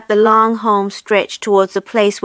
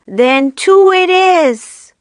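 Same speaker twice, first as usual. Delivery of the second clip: to herself; 9 semitones higher, 4 dB louder, much slower than usual. A narrator's reading. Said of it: "speaking to herself now".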